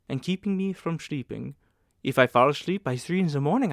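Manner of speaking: manageress voice. Acted.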